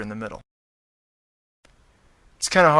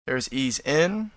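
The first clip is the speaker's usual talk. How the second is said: dictating; much slower than usual. Shown as a demonstration. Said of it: "like that".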